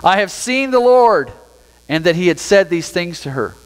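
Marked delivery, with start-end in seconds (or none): 0.0-1.3 slow and a little higher, proclaiming; lightly acted joyful declaration; joyful announcement. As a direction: announce it like glad news. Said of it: "announced to the disciples".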